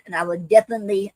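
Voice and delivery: breathless, rushing the words; talking while out of breath. Real, not acted. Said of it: "I'm getting out of breath".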